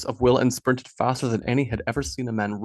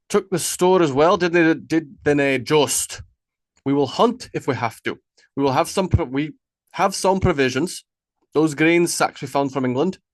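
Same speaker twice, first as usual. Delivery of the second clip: lightly voiced leader, firm and raised; commanding chieftain; 4 semitones higher, 4 dB louder than usual. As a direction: lay down the plan like the one in charge. Ragnar answering the worries.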